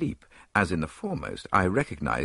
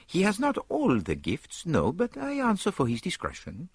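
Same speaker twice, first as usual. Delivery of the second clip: higher, easy Belgian detective; higher Poirot, relaxed; 11 semitones higher than usual. A narrator's reading. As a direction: wave it off lightly as Poirot. Poirot vouching for Hastings.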